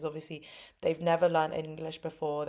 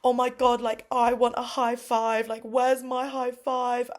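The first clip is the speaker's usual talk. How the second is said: put-on impatient toddler; 6 semitones higher, 4 dB louder than usual. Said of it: "he literally was like".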